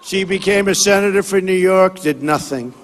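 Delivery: forceful rally oratory to a crowd; rally speech. Acted. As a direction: campaign speech, punchy and declaiming.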